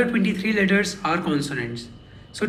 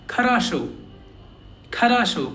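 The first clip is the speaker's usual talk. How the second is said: "Kharasho" with weak first vowels, full final O; stress on last O; 2 semitones higher than usual. Shown as a demonstration. Teacher giving a new example, last O stressed in "Kharasho". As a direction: lean on the final "sho" of "Kharasho". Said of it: "only the last O is stressed".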